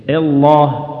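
الله opened on "e" in place of "a"; overdone imala. Shown as a demonstration. Quran teacher copying people's mistake in الله, overdone imala. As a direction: tilt the first vowel of الله into "ellah". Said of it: "كالإمالة".

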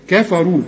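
كفروا with a thin "ka"; light K vowel. Shown as a demonstration. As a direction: keep كفروا light at the start. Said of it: "قول لي".

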